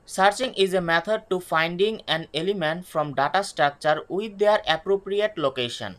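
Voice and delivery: slow, careful definition for students to note; deliberate classroom dictation pace. Shown as a demonstration. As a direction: spell it out word by word, very slowly. Reads English definition aloud.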